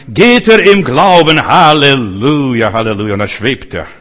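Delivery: hammed-up exultation. Preacher picturing Peter walking on water, mock exultant. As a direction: stretch it out slowly, playfully elated.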